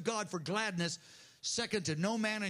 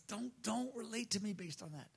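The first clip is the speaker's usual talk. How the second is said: gentle voice of the Lord. Acted. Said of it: "And Lord says".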